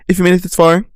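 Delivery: lightly put-on YouTuber pitch to the viewers. Real, not acted. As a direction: slip into a YouTuber's outro voice. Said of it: "why am I talking like a YouTuber?".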